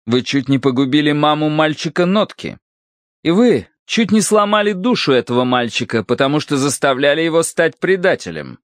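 high, severe character voice; stern accusation. A narrator's reading. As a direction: list the charges sternly, pitched high. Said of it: "сурово заявила Серафима Маркеловна".

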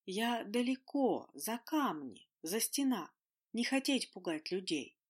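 very slow, halting phantom speech; halting, broken phantom voice; stumbling on every word. A narrator's reading. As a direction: stumble over each word in broken Russian. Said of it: "запинаясь на каждом слове".

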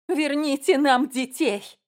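slow, high, loud demand; drawn-out cry. A narrator's reading. Woman demands the children back, crying out. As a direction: stretch each word in a desperate appeal. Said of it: "закричала женщина".

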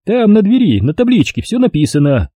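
high, smug official voice; pompous bureaucrat talking down; notary's voice. A narrator's reading. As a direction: play the fat notary, condescending and self-important.

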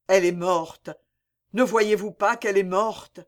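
cri de désespoir plus fort; désespéré. Acted. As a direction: comme un homme qui refuse la mort. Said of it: "en désespéré". (Vincent crie devant le corps de Mireille, désespéré)

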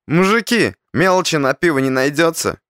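slightly slurred, high and pleading; pretend drunk. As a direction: play a little tipsy beggar. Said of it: "Чуть заплетающимся языком спросил я". (притворно пьяный, чуть заплетающимся языком)

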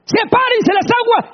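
booming high divine command; God commanding. Acted. God calling creation into being, booming command. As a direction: thunder it out as the Creator. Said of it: "con su palabra".

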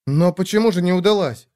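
the sister can't see why he says that; honest surprise from the little sister; sincere surprise. Acted. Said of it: "искренне удивилась она".

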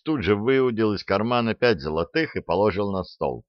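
usual speaking voice

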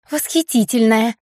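quick squeaky correction in a put-on voice; squeak. A narrator's reading. Blair ducking the thrown glass, squeaking her title. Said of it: "пискнула Блэр".

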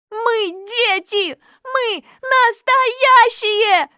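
high, loud, slow shout; girl yelling into the night; shouting into the dark. A narrator's reading. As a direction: call it out into the darkness. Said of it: "продолжала кричать в темноту".

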